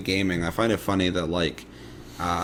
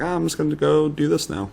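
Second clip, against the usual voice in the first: raised, resigned quote; resigned high voice; 8 semitones higher than usual. Retold or imitated. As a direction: toss it off in a higher voice. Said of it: "So I was like".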